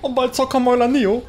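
announcer voice. Acted. Announcer-style intro.

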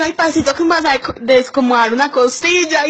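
high-pitched plea of "ay, pasito"; high pleading. Retold or imitated. Begging him to go slowly.

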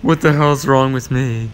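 exasperated grumble at yourself and the game; getting pissed. Real, not acted. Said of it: "I'm getting pissed".

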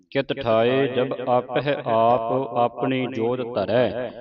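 slow, deliberate recitation of verse; scripture recitation. Shown as a demonstration. Teacher leads the congregation through the verses, slow recitation. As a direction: draw out each phrase, pausing between them.

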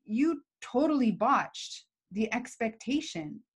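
steady, level, firm statement of facts; name the problem calmly without blame; firm calm assertive. Shown as a demonstration. Manager calmly telling Matt the facts firmly. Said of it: "I have to say".

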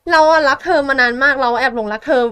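loud, gushing mock confession; acted love confession. Girl confessing to the man she secretly loves, mock gushing. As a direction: act out a smitten girl pouring it out, loudly. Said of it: "เออก็เลยบอกว่า".

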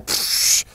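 imitated scornful scoff; mock scoff; dismissive "psh". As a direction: brush them off with a hissed psh. Imitates scoffing at new immigrants.

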